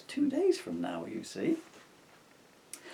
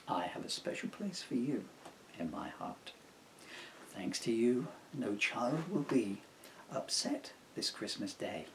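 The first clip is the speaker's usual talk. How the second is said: tender Santa; 5 dB quieter than usual. Acted.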